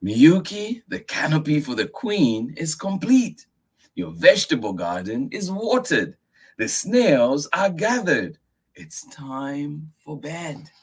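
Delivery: high voice, slowing to bed; patient grandfather. Acted. Grandfather reminding Miyuki it's bedtime. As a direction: list the chores, then close firmly. Grandfather lists done chores.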